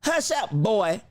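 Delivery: imitating how he said it, leaning on boy; mimicking his tone. Echoing the president to viewers, mild mock imitation. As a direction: copy the president's dismissive tone. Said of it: "did you hear the way he said it?".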